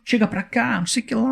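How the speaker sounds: imitated carioca accent, heavy hissing S. A stranger calling him over in a Rio accent, imitated carioca. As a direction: mimic the Rio accent with a drawn S. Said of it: "alguém puxando o S".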